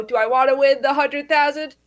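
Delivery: ordinary delivery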